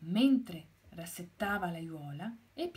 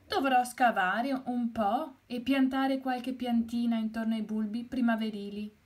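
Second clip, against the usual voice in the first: a touch higher and louder, fast, busy hen; chirpy little hen getting to work; lightly voiced busy hen; lively Gallinella; 4 semitones higher, 6 dB louder than usual. Gallinella voiced, planning garden.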